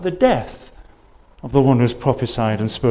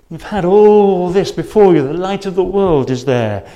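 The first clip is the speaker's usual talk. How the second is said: forceful raised voice, pressing hard; loud preached rebuke; 5 semitones higher, 8 dB louder than usual. Acted. Preacher voicing the Lord to unbelieving people, loud and forceful. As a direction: drive the words home like a thundering pulpit charge.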